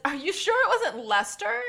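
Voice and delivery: high, loud mock question; Nigel Saint Nigel. Podcaster quoting the TV judge, high and mocking. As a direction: ask it in a high put-on voice. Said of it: "And he also says".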